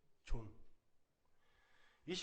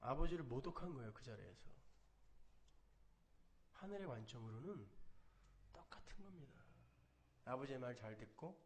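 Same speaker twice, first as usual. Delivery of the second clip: hushed preaching; 6 semitones lower, 8 dB quieter than usual. Acted. Quiet, low sermon close.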